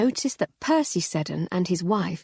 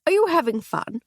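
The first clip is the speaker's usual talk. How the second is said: high lady voice; 11 semitones higher, 3 dB louder than usual. Acted. Lady Hardcastle voiced higher.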